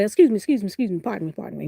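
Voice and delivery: reenacted string of apologies, dying down; retold polite pushing past. Retelling herself pushing past someone in store.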